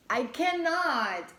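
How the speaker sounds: high, loud and slow, overwhelmed; a stretched, giddy I cannot. Real, not acted. To viewers, overwhelmed by their reading, high and slow.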